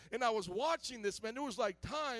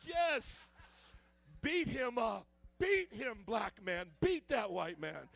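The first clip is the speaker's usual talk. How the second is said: cheering on; 4 dB louder, slower than usual. Retold or imitated. Viewer rooting for his movie hero, excited cheer. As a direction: urge the fighter on with raised voice. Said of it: "I'm just like".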